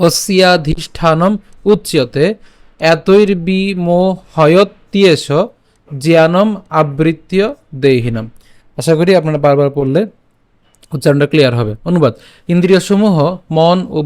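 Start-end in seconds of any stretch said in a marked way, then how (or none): 0.1-8.3 slow Sanskrit recital, word by word; careful scripture reading; slow verse recitation. Shown as a demonstration. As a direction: spell out each word for learners. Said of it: "আমি আবার বলছি".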